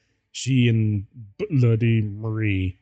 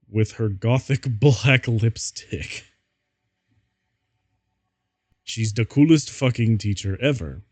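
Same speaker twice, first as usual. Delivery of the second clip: breaking up laughing. Acted. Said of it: "I'm gonna try this again".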